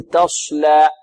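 "تصلى" with a pursed, whistly sad; "تصلى", the s hooded toward sh; lips rounded on sad. Shown as a demonstration. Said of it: "والبعض يضم الشفتين في الصاد".

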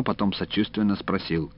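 ordinary delivery

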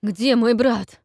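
high, loud cry; desperate yell at the hunter; desperate shout. Acted. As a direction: shout it in despair. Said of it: "отчаянно крикнул он".

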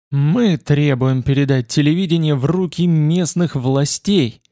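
slow, insistent demand; understated forceful orator, deliberately paced; Яворовский. A narrator's reading. Politician demanding at a rally, pressing and deliberate. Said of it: "мощно и напористо".

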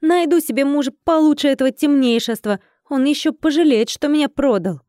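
defiant bravado. Acted. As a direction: vow he will regret it. Героиня храбрится после отказа. (задорно, с вызовом)

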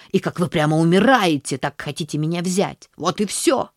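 a hint of a proud street kid bristling; proud boy. Street boy defending his pride to the aunt, indignant.

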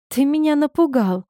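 a touch of reproach, pitch lifted; reproachful. A narrator's reading. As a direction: chide him gently for the fright. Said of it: "с укоризной произнесла я". (с лёгкой укоризной)

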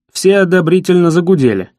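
plain reading voice

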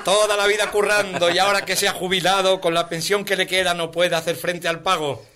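put-on chanted children's-rhyme parody; comic ballad recitation; singsong verse recital. Recites parody of Don Gato.

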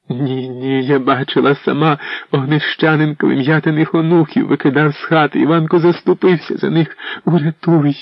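wife pleading with the prince for her son; desperate plea. A narrator's reading. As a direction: beg with rising desperation.

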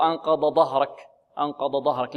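faulty أنقض ظهرك with two ض sounds; ظ turned into ض. Shown as a demonstration. Teacher showing students the opposite error, ض in place of ظ. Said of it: "لا،".

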